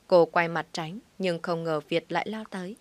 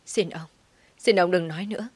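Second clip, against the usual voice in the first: sobbing plea; 4 dB louder than usual. Acted. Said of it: "Bà Tâm nức lên".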